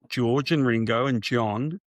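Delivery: slow, deliberate list ending on one more name. Shown as a demonstration. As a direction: spell it out slowly for a confused listener. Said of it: "let me think if I can get this right".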